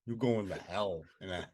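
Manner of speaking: hammed-up Italian-American accent; joking Italian wise-guy accent; attempted Italian accent. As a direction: put on a loose, mock Italian accent. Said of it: "Is that Italian accent you were doing?".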